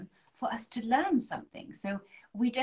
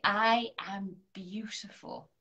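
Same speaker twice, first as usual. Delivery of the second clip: whispered affirmation; slower than usual. Shown as a demonstration. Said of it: "and say".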